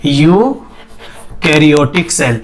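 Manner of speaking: Eukaryotic split after the first sound, low; slow dictation. Real, not acted. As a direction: dictate the term slowly, piece by piece. Teacher repeats term while writing. (धीमे, तोड़-तोड़ कर लिखवाते हुए)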